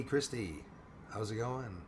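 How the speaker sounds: ordinary talk, nothing marked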